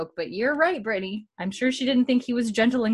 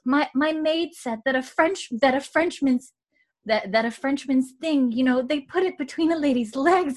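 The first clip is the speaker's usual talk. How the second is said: higher, nervous repeating of words; stuttering Mary; 5 semitones higher than usual. Retold or imitated. Podcaster acting out Mary's scandalous line, higher nervous stutter. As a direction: stumble shyly through it, pitched up. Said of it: "Mary has a little bit of a stutter".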